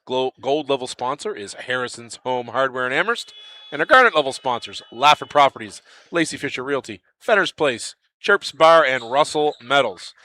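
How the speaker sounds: even, measured read of the sponsor list. Acted. Commentator thanking sponsors on air, steady ad read.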